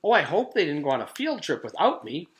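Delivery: high, loud fretting; worried schoolgirl. A narrator's reading. Jenny worrying about a missed field trip, high and anxious. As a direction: fret that you were left behind.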